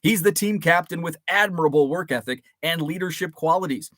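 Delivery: steady broadcaster read; news voice. Shown as a demonstration. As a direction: read it like a radio sports announcer. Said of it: "This is my news voice".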